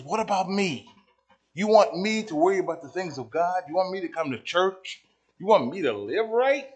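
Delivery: high, loud protest building to a full yell; mock indignant shout. Preacher voices the me generation's demands, indignant shouting.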